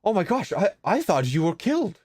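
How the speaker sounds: mildly overwhelmed, voice lifting; astonished relief. Acted. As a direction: rush up to someone believed dead. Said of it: "he, like, rushes over".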